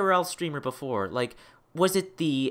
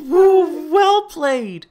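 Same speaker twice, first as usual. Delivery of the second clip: excited; 9 semitones higher, 9 dB louder, much slower than usual. Real, not acted. Host cheering after the intro.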